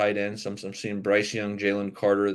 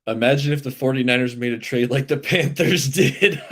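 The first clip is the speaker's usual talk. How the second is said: louder mock musing breaking into laughter; sarcastic; 3 semitones higher, 5 dB louder than usual. Real, not acted. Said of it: "This is sarcasm font".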